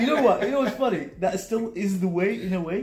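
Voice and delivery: high, loud laughing question. Real, not acted. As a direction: laugh through the words. Laughing mid-story.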